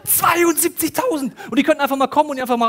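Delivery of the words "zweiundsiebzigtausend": zweiundsiebzigtausend drawn out high and loud; slow, high, loud stress on zweiundsiebzigtausend; emphatic number. Acted. Emphasizing the angel count.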